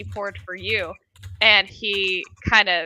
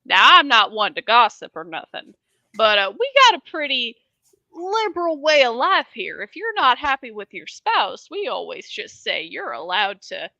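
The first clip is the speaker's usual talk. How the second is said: indignant bartender; 3 semitones higher than usual. Acted. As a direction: protest his respectable business. Bartender defends his establishment.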